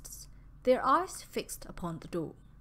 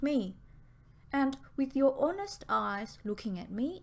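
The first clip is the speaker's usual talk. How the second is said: excited pleading; 2 semitones higher than usual. Acted. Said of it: "Pearl said excitedly".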